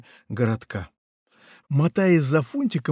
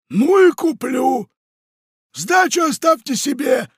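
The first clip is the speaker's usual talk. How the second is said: haughty pirate; 13 semitones higher, 6 dB louder than usual. Acted. Pirate storms out of the bar, loud and haughty. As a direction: toss it over your shoulder.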